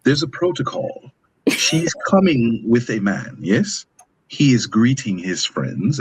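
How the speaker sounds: put-on British accent. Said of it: "that British accent".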